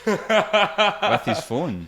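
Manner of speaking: laughing high and slow through the question; laughing disbelief. Real, not acted. Friend hears about a photographer, laughing disbelief. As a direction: squeal it out in disbelief.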